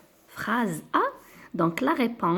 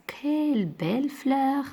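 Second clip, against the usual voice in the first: exclamation lue; 6 semitones higher than usual. Shown as a demonstration. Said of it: "C'est très simple, c'est la phrase exclamative".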